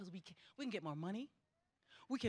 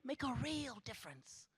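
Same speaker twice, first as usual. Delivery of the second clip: much softer, drawing back; quiet; 7 dB quieter than usual. Shown as a demonstration. Speaker to graduates, softly echoing herself. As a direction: let "Make a real difference" fall away softly. Repeats the phrase, then fades.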